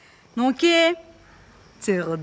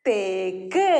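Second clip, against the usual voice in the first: put-on children's answer; 9 semitones lower, slower than usual. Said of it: "എല്ലാവരും ശബ്ദത്തിൽ പറഞ്ഞേ".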